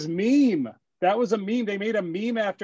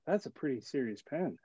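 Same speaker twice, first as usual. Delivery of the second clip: hushed awe; 2 semitones lower, 10 dB quieter than usual. Retold or imitated. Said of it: "The producer goes".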